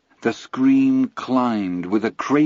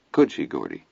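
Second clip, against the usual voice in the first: helpless; 7 semitones lower than usual. A narrator's reading. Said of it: "then added helplessly".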